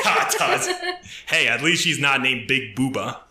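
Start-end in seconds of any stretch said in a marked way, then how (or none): 0.0-0.7 sudden high-pitched echo; squeaky high repeat. Acted. Repeating the joke name.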